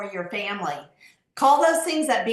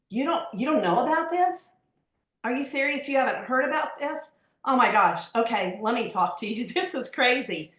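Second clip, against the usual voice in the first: amazed disbelief. Shown as a demonstration. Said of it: "I've got a great line".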